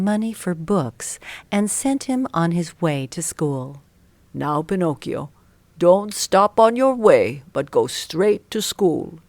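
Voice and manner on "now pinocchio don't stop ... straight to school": lightly voiced caring father; a hint of a stern father's warning; fatherly instruction.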